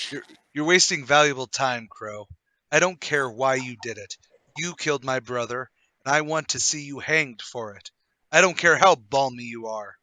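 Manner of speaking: cold vengeful anger; bloodthirsty. Acted. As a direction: snarl it at the man who killed your brother. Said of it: "talking to our Mister Crow in that bloodthirsty manner".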